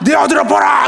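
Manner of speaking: high, loud, triumphant God voice; hammed-up booming divine praise; playfully acting out God cheering him on; imagined voice of God. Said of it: "막 이럴 줄 알았어요".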